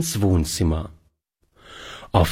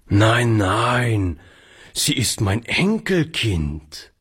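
proud; slower than usual. Acted. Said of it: "erklärte der Alte stolz".

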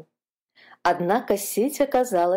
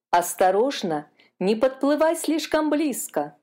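warning; 6 semitones higher than usual. A narrator's reading. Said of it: "предупредил вожак".

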